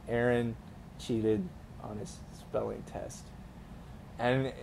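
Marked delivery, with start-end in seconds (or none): 0.1-3.3 stern teacher. Retold or imitated. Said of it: "she was like".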